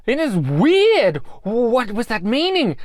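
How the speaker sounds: amused disbelief. Real, not acted. Amused reaction to robot.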